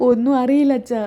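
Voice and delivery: mildly tearful reply to a father; a touch of crying, acted; acted tearfulness. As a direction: say it as if holding back tears. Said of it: "ഇതും പറഞ്ഞ് സച്ചി കരയുന്നത്".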